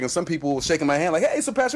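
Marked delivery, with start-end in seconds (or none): 1.2-1.7 high-pitched imitation of an eager greeter; mock eager greeting. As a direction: call it out like a keen acquaintance. Acting out a stranger's friendly greeting.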